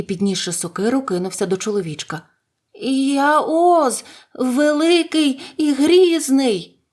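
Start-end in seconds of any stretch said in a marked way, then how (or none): 2.8-6.8 high, loud, drawn-out frightened declaration; trembling voice. A narrator's reading. Cornered little wizard facing an axe, trembling voice. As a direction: announce yourself in high-pitched fright. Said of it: "тремтячим голосом відповів той".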